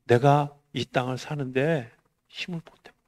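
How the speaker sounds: normal talking voice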